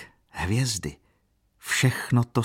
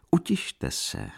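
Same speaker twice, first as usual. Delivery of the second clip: calm; 11 semitones higher, slower than usual. Acted. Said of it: "odpověděl klidně hrabě".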